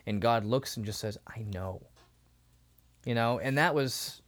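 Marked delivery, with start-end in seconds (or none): 1.3-1.8 soft, lowered, tender reply; gentle reassurance. Retold or imitated. God answering someone who has struggled forever, soft reassurance. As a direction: say it quietly, with knowing comfort.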